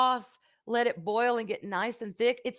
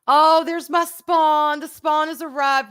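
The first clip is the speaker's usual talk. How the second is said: surprised greeting; 7 semitones higher, 10 dB louder, slower than usual. Real, not acted. Her son walks in.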